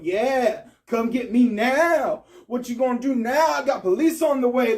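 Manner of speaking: swagger at the stranger from a distance; lightly voiced tough-talk taunt; big and bad. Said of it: "all big and bad".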